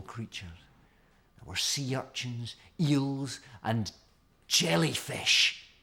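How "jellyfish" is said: slow, wondering jellyfish; drawn out. A narrator's reading. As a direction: stretch it with awe. Narrator savors strange creature.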